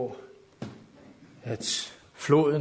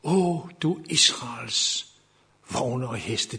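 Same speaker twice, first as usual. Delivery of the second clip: quiet retold cry; slower than usual. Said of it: "så råber Elisa".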